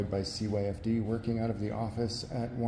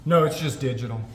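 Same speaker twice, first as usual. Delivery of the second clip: repeated louder so she hears; 5 dB louder than usual. Real, not acted. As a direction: raise your voice to get through. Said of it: "I can't hear you through the glass".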